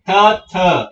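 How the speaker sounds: Th as aspirated t with tongue on the teeth; loud demo Th, a puff off the teeth; dental th. Shown as a demonstration. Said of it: "it will touch from your teeth". (Th, పంటికి నాలుక తాకిస్తూ థ)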